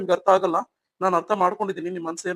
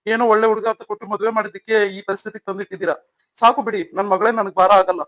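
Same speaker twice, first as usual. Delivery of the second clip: angry father; 4 dB louder than usual. Acted. Angry father takes daughter home.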